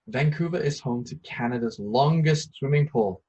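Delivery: a bright, emphatic announcement of a fun fact; excited exclamation. Shown as a demonstration. Teacher reading an example sentence with strong emotion, excited. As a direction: sell it like amazing news.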